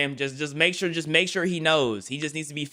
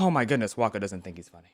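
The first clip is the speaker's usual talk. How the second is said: teasing, poking-fun tone; 6 semitones lower, 4 dB quieter than usual. Imitating viewers who take a joke seriously: imitating viewers. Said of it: "Some of y'all are gonna be like".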